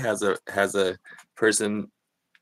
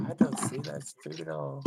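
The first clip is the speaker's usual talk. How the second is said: put-on Wisconsin accent; 6 semitones higher, 8 dB quieter than usual. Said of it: "I heard it in her accent".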